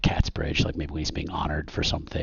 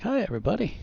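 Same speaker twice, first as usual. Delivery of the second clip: high, sing-out hello to the room; big showy hello; local celebrity greeting; faster than usual. Acted. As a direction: greet the crowd like a hometown hero. Local legend waves to the room.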